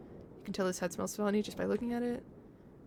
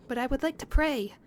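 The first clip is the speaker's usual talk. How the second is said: put-on shy boy pleading; 5 semitones higher than usual. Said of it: "The boy shyly pleads".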